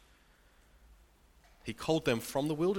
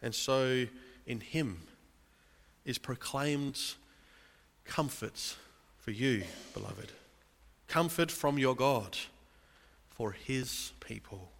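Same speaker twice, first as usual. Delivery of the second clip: tender hushed comfort. Real, not acted. Pastor offering comfort to beloved.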